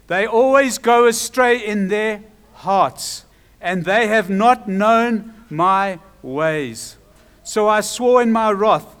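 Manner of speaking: slow, loud, weighty proclamation; preacher declaiming God's judgement; wrathful verdict. Acted. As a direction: draw out each charge with force.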